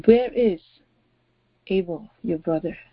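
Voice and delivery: solemn divine question, sinking at the end; stern God. Acted. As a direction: confront him as God in wrath, pausing after the first words. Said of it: "Now the voice of God is very different".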